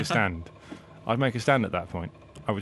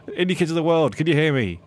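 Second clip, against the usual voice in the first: loud rallying call, a bit higher; announcing on a microphone; 4 semitones higher, 4 dB louder than usual. Acted. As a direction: call out to the crowd over a PA. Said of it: "on the microphone at the main stage".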